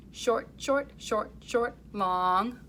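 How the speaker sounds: four clipped beats, then a held long; short short short short long. Shown as a demonstration. Teacher modelling the second rhythm line. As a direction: hold the last one long. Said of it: "Can you try that with me".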